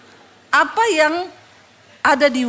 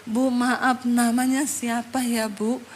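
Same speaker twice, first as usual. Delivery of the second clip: gentle, slower, apologetic asking; softened polite question; 4 dB quieter, slower than usual. Retold or imitated. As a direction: imitate a humbled woman asking politely. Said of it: "hatinya dibenerin sama Tuhan".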